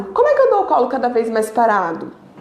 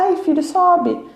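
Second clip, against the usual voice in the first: mock giving in; 5 semitones higher, slower than usual. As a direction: drawl it like a parent who gives up. Parent mocked as giving in.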